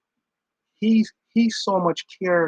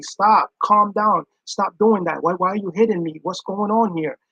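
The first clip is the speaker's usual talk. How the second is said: raised, higher pleas to stop; a hit partner begging them to stop; pleading with an attacker; 3 semitones higher, 4 dB louder than usual. Acted. Loud begging to stop a fight. Acted plea during a fight.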